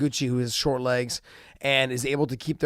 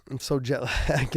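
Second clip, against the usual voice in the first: laughing; 2 semitones lower, 4 dB quieter than usual. Real, not acted. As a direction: laugh breaking into the last word.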